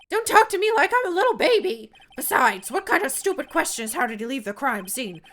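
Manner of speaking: loud, high clown voice; silly clown. Acted. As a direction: yell it like a cranky clown. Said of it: "When I did this clown voice".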